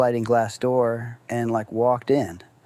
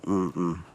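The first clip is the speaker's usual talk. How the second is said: head-shake hum; 5 semitones lower, 7 dB quieter than usual. Retold or imitated. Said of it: "shook his head".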